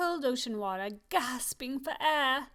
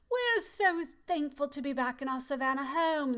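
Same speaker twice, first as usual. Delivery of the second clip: celebrating; 3 semitones higher than usual. Acted.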